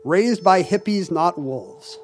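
slow, deliberate sticker read; slow mock-solemn slogan; reading the sticker slowly. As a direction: spell it out slowly. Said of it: "these stickers that say".

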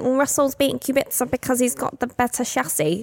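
smug know-it-all internet troll; Twitter troll voice. Acted. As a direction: sneer it like a conspiracy poster. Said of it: "that's my Twitter troll voice".

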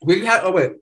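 talking while eating salad; words around a bite of food; mouth full. Real, not acted. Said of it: "I'm eating a salad, sorry".

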